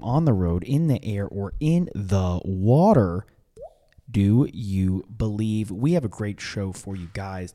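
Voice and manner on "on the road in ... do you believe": hype announcer. Acted. Podcast intro hype call.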